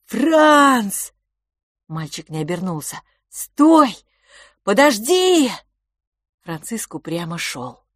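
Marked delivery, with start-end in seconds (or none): 0.1-1.1 high loud shout of the name; calling out. Acted. Brother calls after him. 3.3-5.5 high loud cry to stop; calling out. Acted. Brother calls after him.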